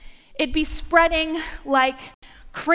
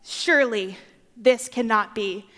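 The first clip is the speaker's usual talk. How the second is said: lower, doubtful; disappointed crowd; 6 semitones lower than usual. Retold or imitated. Israelites seeing Jesus' ragtag followers, disappointed. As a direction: sound let down and skeptical.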